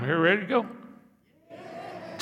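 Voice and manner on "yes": soft yes. Real, not acted. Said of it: "Just like that".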